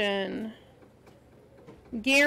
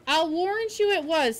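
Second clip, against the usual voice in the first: higher-pitched, firm "I'll warrant you it was"; emphatic; 4 semitones higher than usual. A narrator's reading. Reader repeats Marilla's line for the student, emphatically. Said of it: "said Marilla emphatically".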